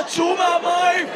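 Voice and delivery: mock the lifeguard yelling again with a laugh; lifeguard call. Imitating the lifeguard to the swimmers, laughing. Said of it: "אתם נכנסים להתפלה".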